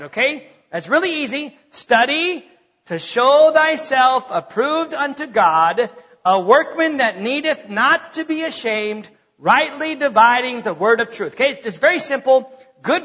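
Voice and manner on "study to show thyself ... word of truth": slow, deliberate recital of the verse; verse recitation. Acted. Pastor reciting the memory verse for the church, slow and deliberate. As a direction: recite it so they can memorise it.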